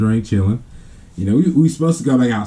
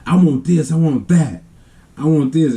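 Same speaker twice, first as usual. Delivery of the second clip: imitating a child's demands, higher voice; demanding little brother; 6 semitones higher than usual. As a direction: list wants insistently, like a needy kid. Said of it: "he used to be one of these ones like".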